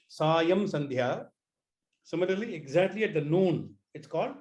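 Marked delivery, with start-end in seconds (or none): 0.1-1.3 "Sayam Sandhya" said slowly, syllable by syllable; slow, clear term. Shown as a demonstration.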